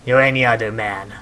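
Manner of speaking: lightly voiced sailor, loud openings; measured in-character put-down; unimpressed sailor character. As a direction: play a boatman unimpressed by heroes.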